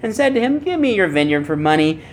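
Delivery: a hint of a whiny sulking king. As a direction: lightly whine it like a pouting king. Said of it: "imagine him saying in a whiny voice".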